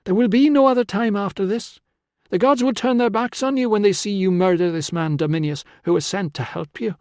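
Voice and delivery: high, insistent warning; urgent pleading. A narrator's reading. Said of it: "she urged".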